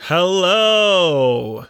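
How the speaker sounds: one long drawn-out greeting; nice, lovely hello. Real, not acted. Co-host told to say hello, lovely drawn-out greeting. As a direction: sing out a stretched, pleasant hello. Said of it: "That was nice. That was lovely".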